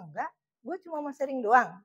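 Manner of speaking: relaxed Jakarta slang, easygoing; casual slang with a friend; casual gua-lu slang. Retold or imitated. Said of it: "Saya ngomongnya ke gua lu ya sama temennya".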